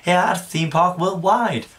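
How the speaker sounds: slow, plummy posh English voice. Real, not acted. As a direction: go suddenly upper-class and slow. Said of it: "Don't know why I went into a posh voice there".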